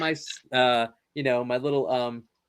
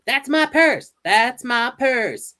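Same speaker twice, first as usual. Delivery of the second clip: high, loud sassy delivery; with attitude; 9 semitones higher, 4 dB louder, slower than usual. Retold or imitated. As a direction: belt it out with attitude. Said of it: "Say it with attitude".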